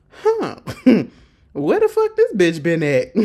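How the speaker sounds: mock stunned, laughing; amazed laugh. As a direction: laugh in disbelief. Katie amazed at her.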